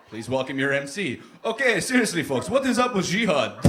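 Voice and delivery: lightly hammed-up club host; mock amateur emcee. Local comic works the amateur night crowd, mock emcee patter. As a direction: put on an eager open-mic comic.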